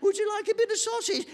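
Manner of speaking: very high, hammed-up coaxing; coaxing parent. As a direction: plead with a child, exaggerated. Voices parent coaxing a child.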